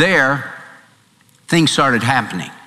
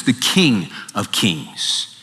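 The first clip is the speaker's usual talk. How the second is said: hushed reverence; 6 semitones lower, 5 dB quieter, slower than usual. Acted. Reverent hushed climax of choice.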